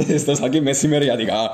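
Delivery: loud mock yell; hammed-up outraged bellow; imitated shouting. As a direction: echo the comic shout with force. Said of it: "ο άλλος φώναζε".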